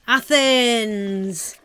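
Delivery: "Athens" stretched out long; long, lingering "Athens"; odd drawn-out delivery. Pretend. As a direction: draw out "Athens" as a playful announcement. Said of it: "I don't know why that was like that".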